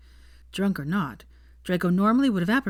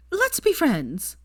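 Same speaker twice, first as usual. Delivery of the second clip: spluttering after laughter; 10 semitones higher, 3 dB louder, much slower than usual. A narrator's reading. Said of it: "Pansy calmed down enough to splutter".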